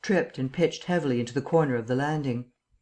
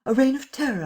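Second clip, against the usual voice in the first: reign of terror thrown out much higher and louder; emphatic repeat; 11 semitones higher, 4 dB louder than usual. A narrator's reading. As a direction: hammer the repeat home. Kemp repeats phrase for emphasis.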